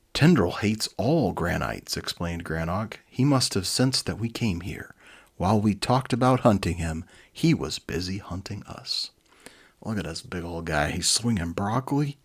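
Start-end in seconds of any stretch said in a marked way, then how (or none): 0.1-9.1 lively read-aloud storybook voice; animated storyteller; story narration. A narrator's reading. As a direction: read it like a children's book. Reads children's book aloud.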